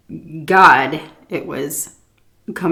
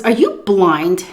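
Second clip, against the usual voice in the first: louder, slow incredulous scolding; 4 dB louder, slower than usual. Retold or imitated. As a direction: scold her like she's hopeless. Old lady scolding her.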